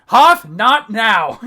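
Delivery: slow laughing scold. Real, not acted. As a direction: drag it out while laughing.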